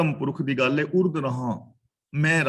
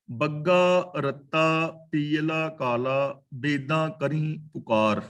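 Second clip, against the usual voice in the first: slow, measured verse reading; drawn-out sacred verse; scripture recitation; slower than usual. Real, not acted. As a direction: recite the line slowly, word by word.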